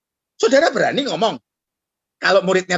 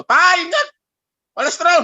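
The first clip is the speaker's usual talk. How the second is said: mild mock yell; 10 semitones higher, 5 dB louder than usual. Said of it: "Anakmu teriak".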